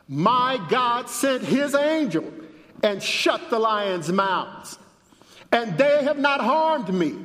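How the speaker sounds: high, measured proclamation; preacher voicing a prophet's reply; declamatory scripture reading. A narrator's reading. Reads Daniel's answer aloud.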